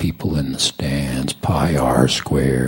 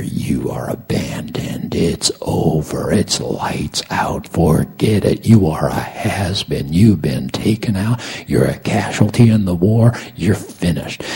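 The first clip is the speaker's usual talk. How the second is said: enemy's huge voice. Retold or imitated. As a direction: pronounce doom, growing more forceful line by line. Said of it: "the enemy has got this huge voice in your ear".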